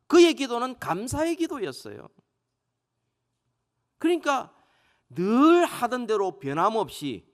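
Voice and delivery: high, emphatic pulpit delivery with stretched key words; impassioned preaching. Acted. Preacher expounding Daniel's thankful prayer to the congregation, impassioned preaching.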